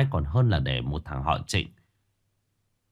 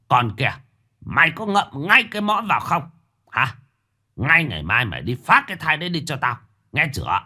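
furious shout; 6 semitones higher than usual. Acted. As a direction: point at her and shout her down. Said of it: "chỉ tay vào mặt Hân mà quát".

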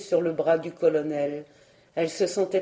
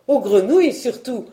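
louder, teasing retort; amused mockery; 3 semitones higher, 7 dB louder than usual. A narrator's reading. Puipercé mocks Marguerite's care for frogs, amused. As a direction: tease her, mildly amused. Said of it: "riant toujours".

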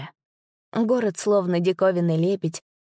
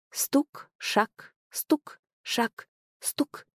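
soft, measured knock and step; ominous rhythm; 7 semitones higher, 5 dB quieter, much slower than usual. A narrator's reading. Narrator evokes the father's approaching cane, slow and ominous. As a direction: tap out each word like a cane on stone. Cane taps and heavy steps.

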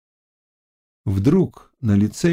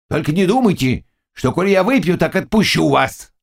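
stern; 6 semitones higher than usual. A narrator's reading. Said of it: "сурово сказал пан Заглоба".

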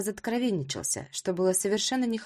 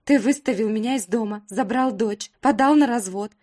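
louder, higher rising fury; furious outburst; 4 semitones higher, 6 dB louder than usual. Acted. Wife furiously listing Roma's betrayals, loud and high. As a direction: pour out every grievance.

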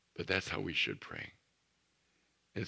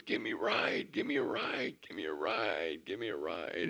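put-on eager boy calling. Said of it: "jumping up and waving, goes".

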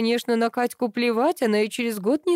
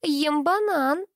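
put-on little girl; 7 semitones higher, much slower than usual. A narrator's reading. Child character speaks.

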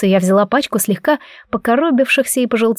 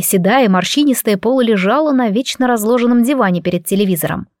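ordinary delivery

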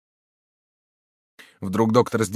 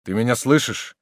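anxious calling; 3 semitones higher, 6 dB louder than usual. A narrator's reading. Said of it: "спросил маршал".

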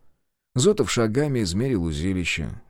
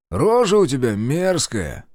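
taunting; 4 semitones higher, 5 dB louder, slower than usual. Acted. Taunting the guard.

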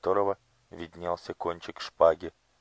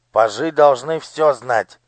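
slow, high and much louder grumble; displeased; 6 semitones higher, 10 dB louder, slower than usual. A narrator's reading. Old courtier scolds the pages, displeased and loud. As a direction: scold them like a fussy old official. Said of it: "недовольно сказал старик".

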